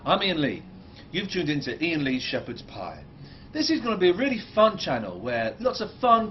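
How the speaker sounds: excited presenter. Shown as a demonstration. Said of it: "But just wait, um, look".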